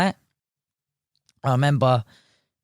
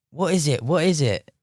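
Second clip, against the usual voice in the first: excited asking; 6 semitones higher than usual. Retold or imitated. Eager question on seeing the catch.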